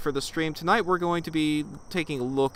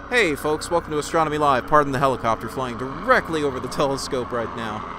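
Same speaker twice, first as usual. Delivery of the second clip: raised voice over rotor noise; yelling over helicopter; 6 dB louder than usual. Real, not acted. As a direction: call out louder over the helicopter. Helicopter flying directly over telescope.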